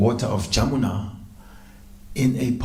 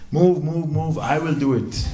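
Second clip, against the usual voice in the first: pushy confidence; 4 semitones higher than usual. Acted. Rival pushes forward to volunteer.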